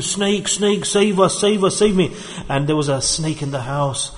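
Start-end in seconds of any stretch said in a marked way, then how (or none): 0.0-2.1 mock shriek. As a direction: play the family shrieking at the snake. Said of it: "comes out screaming, shrieking".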